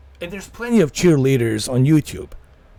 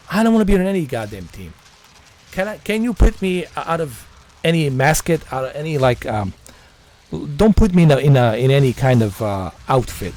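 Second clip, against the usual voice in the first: exasperated rant; 5 dB louder than usual. Real, not acted. Exasperated rant about mascots.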